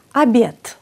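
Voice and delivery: Αμπιέτ starting on "a" and ending in "t"; final d as t. Shown as a demonstration. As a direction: say Αμπιέτ with a clean voiceless final t. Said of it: "ακούμε εδώ ένα τ". (Αμπιέτ με «τ» στο τέλος)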